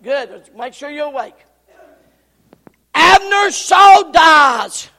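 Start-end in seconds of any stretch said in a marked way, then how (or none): 2.9-4.9 sudden loud preacher burst; loud wake-up call. Real, not acted. Preacher jolting a sleepy congregation awake, loud. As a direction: jolt them awake with volume.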